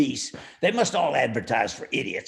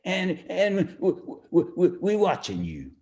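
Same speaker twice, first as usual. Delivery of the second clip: stammered threat through a chuckle; laughing threat; 2 semitones higher than usual. Acted. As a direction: laugh while trying to sound menacing. Henchman's parting threat.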